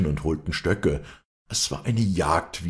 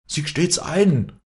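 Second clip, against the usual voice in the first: high, loud and slow outcry; wild shout; 13 semitones higher, 7 dB louder, slower than usual. A narrator's reading. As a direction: cry out like an outraged crowd. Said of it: "schrien alle wild durcheinander".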